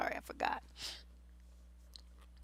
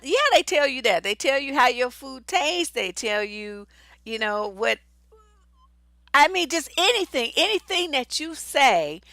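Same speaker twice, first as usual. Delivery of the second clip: ordinary talk, nothing marked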